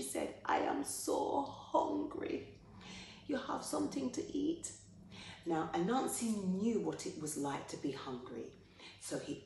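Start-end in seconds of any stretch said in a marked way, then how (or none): 0.5-4.7 starving woman begging. Acted. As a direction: plead from hunger in a high voice. Starving woman begs for food.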